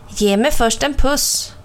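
a touch of insistence from the disguised wolf; wolf in grandma's bed demands a kiss, mildly insistent. Acted. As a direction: press for the kiss, lightly insistent. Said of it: "envisade vargen".

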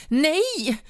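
a sudden, very high, loud no; hysterical scream. A narrator's reading. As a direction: scream it in panic. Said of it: "skrek hon hysteriskt".

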